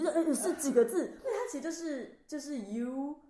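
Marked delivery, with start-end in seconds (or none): 2.6-3.2 very slow, separated words; slow gloss with gaps between words. Shown as a demonstration. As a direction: spell out the three words one at a time. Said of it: "它其实就是三个字混在一起".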